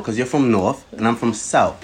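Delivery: mock South London accent; put-on British accent. Boasting of being from South, put-on London accent. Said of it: "I don't hear your accent".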